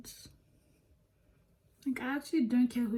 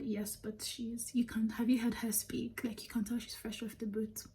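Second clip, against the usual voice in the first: whispering; 6 dB quieter than usual. Retold or imitated. Overheard girls mocking her accent.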